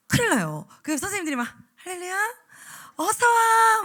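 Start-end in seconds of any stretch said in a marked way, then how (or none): 1.8-3.8 put-on bright, high, loud greeting to kids; beaming hello to a child; cheerful welcome. Shown as a demonstration. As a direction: welcome the little ones joyfully. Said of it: "막 이래야 되거든요".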